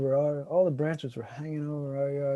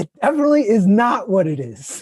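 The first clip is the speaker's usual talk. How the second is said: laughing insistence; 4 semitones higher, 10 dB louder than usual. Real, not acted.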